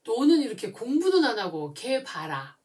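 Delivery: a mother nagging her daughter about her looks; comparing, nagging parent. Retold or imitated. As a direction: needle the child by comparing her to others. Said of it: "또 비교를 하세요".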